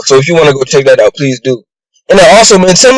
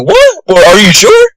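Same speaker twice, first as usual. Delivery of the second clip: mock serious demand; 7 semitones higher than usual. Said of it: "Aku was mad serious".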